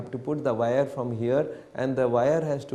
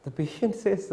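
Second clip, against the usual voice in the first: ordinary delivery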